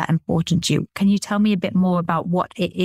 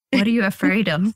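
What are you afraid of in a light American accent. Shown as a demonstration. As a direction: ask it the way an American would, with a mild American accent. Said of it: "I even say it in an American accent".

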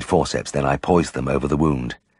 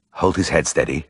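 hoarse. A narrator's reading. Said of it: "I said hoarsely".

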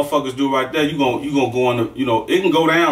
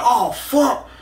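pained oh fuck; 11 semitones higher than usual. Retold or imitated. Opponent's nose split.

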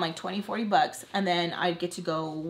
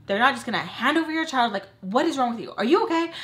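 higher, emphatic voice of reason; exasperated grandma calming her; 4 semitones higher, 4 dB louder, faster than usual. Retold or imitated. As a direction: imitate grandma talking sense into a panicking girl. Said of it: "my grandma would have to calm me down".

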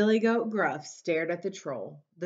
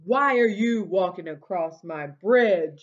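louder troll bellow; troll yell; 6 dB louder than usual. Acted. Troll yelling at the goat on his bridge, louder. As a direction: yell it like a stinky old troll. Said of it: "yelled the hideous".

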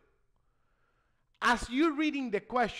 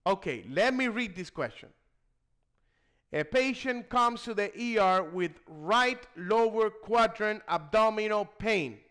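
reading aloud. Shown as a demonstration. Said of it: "if you say out loud".

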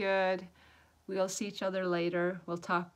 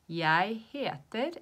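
slow, louder model answer; slow teaching model; 3 semitones higher, 5 dB louder, much slower than usual. Shown as a demonstration. Teacher showing how to answer with your name, slow demonstration. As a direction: stretch each word for learners.

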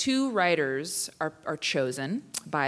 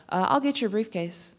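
imitating boyfriend; 4 semitones higher than usual. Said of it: "and he'd be like".

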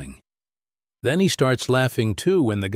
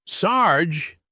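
second call; 7 semitones higher than usual. A narrator's reading. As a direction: call his name again, less urgent. Calling out again, softer.

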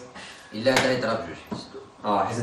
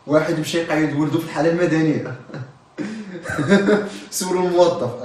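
trying not to laugh; 4 semitones higher than usual. Real, not acted. Joke telling while laughing.

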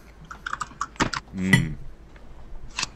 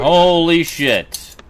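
amazed; 7 semitones higher, 6 dB louder, much slower than usual. Real, not acted. Stream finally works.

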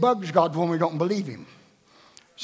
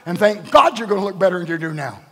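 usual speaking voice

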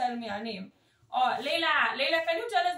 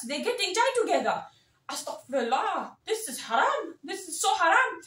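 put-on thick South Asian auntie accent, scolding and gossipy. Community elder auntie lecturing the chat, in a South Asian accent.

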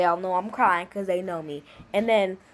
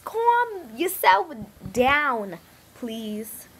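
exaggerated telling-off; 2 semitones higher, much slower than usual. Mock scolding of the dogs.

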